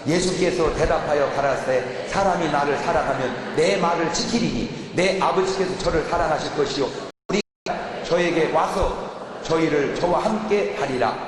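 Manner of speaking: slow, measured Bible reading; scripture reading. Acted. Preacher reading verse to the congregation, slow and solemn. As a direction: read the verse out slowly and solemnly.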